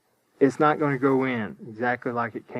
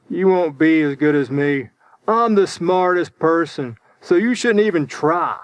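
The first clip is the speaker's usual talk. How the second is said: acted bragging, a bit louder; boastful put-down; 5 dB louder than usual. Unwise person putting down someone trying in school, mock boastful. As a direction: play a mild mock show-off talking down. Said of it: "instead of saying something wise, they say".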